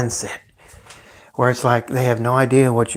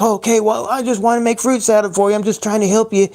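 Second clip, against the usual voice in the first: higher, mocking whiny parent; 9 semitones higher than usual. Mocking the parent who offered fruit salad. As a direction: imitate him sounding hurt and self-righteous. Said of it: "He's like".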